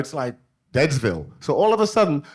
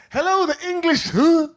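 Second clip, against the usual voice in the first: high, startled mock double take; shocked host; 14 semitones higher, 4 dB louder than usual. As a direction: squeak with surprise at the door. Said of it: "not what they expected".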